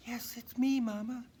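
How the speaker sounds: put-on high, joyful young reindeer; happy reunion reply; Dasher's voice. A narrator's reading. Dasher answering her mother, high and joyful. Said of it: "said Dasher".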